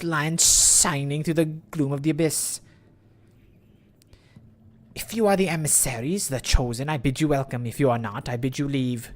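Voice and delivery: solemn chieftain. Acted.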